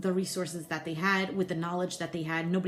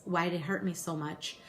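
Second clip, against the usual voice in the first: fighting tears, emotional; teary-eyed. Real, not acted. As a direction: voice thick with held-back tears. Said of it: "I'm just getting teary-eyed".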